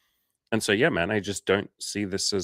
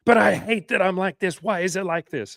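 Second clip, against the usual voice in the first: much higher, louder whiny lament; mock whiny client lament, much higher and louder; mock whining; 11 semitones higher, 5 dB louder than usual. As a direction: moan like a self-pitying client. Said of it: "they're basically like".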